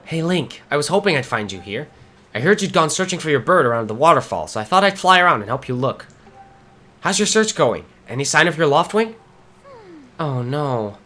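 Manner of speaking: lightly voiced friend, encouraging; helpful friend character. Friend asks Link about his lost bird, lightly acted concern. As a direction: read the game friend's lines with gentle concern. Reads a game character's dialogue.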